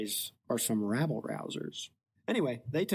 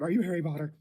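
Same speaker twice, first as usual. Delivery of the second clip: blurted; 4 semitones higher, 3 dB louder, faster than usual. Retold or imitated. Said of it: "but then blurts out".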